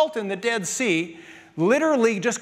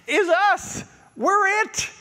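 emphatic; 11 semitones higher, 3 dB louder, much slower than usual. Real, not acted. Preacher drives home the point.

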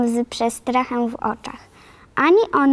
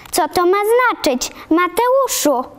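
high, startled exclamation; exclaiming in surprise; 6 semitones higher than usual. A narrator's reading. Marilla sees the girl instead of a boy, high surprised cry. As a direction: Marilla shocked to see a girl. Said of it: "wykrzyknęła".

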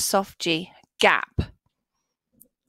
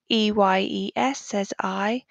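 whisper. Shown as a demonstration. Teacher whispers one spelling.

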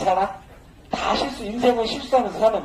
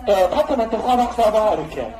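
mouth sound demo; 2 semitones higher than usual. Shown as a demonstration. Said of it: "입으로 사".

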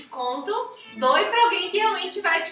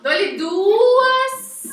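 bem mais alto e agudo, leiloeiro; 6 semitones higher, 10 dB louder than usual. Acted. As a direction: grite o lance como leiloeiro. Leilão de desconto, segundo lance. (leiloeiro gritando o lance)

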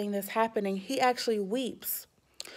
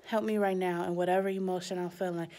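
soft prayer; 2 semitones lower, 5 dB quieter than usual. Shown as a demonstration. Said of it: "to just say a prayer and to say".

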